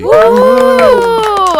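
high whooping cheer; excited cheer. Real, not acted. Cheering co-host introduction.

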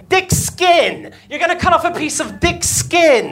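emphatic correction. Acted. Correcting doctor, high emphatic.

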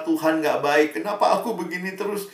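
mildly mock indignant protest; retold angry complaint. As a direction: pile up the complaints as an imitated upset teen. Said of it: "lalu marah-marah".

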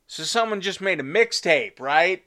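excited and loud, pleading; mock pleading. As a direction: beg for the job, half joking. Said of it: "I was like".

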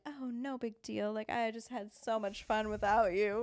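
put-on breezy cool-girl act; fake nonchalant. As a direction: pretend you don't care. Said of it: "like, the cool girl".

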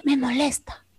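a hint of a tired grandmother; grandmother's complaint. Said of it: "una abuelita que dice". (abuelita quejándose, más suave)

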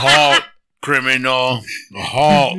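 robot voice. Pretend. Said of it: "do the RoboCop one".

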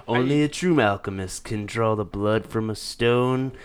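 wine commercial. Acted. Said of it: "read it like a commercial".

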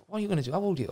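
put-on Leicester accent. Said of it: "broad Leicester accent".

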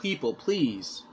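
slow, drawn-out mild exasperation; mock frustration. Imagined frustrated man to the people, slow and exasperated. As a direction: plead for patience, drawing the words out. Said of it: "man would be frustrated and go".

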